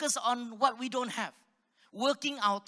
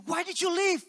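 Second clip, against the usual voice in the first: mock angry boss; 9 semitones higher, 6 dB louder than usual. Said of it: "He said".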